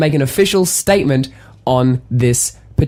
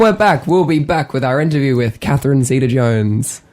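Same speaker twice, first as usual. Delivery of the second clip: mock radio host. Host showing how radio works, mock presenter announcing what's next. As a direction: imitate a presenter setting up an interview. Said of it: "they're like".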